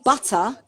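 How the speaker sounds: "butter" with a crisp T, no final R; non-rhotic "butter", T clearly sounded; own British butter. Shown as a demonstration. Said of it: "the way that I say the word butter".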